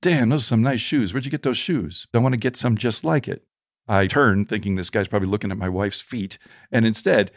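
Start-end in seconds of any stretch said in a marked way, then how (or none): 0.0-3.4 lightly voiced street hustler, a little higher; a hint of a street panhandler's patter. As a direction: imitate a chatty stranger admiring someone. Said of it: "I hear this man's voice say".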